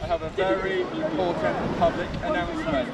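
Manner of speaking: high, mock-formal announcer. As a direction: announce it like a grand public notice. Mock announcement before a jump.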